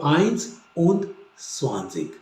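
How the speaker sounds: आइंस उंद स्वानजिक, falling to soft; twenty-one in German; German einundzwanzig. Shown as a demonstration. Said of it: "and को उंद कहते हैं और twenty को स्वानजिक".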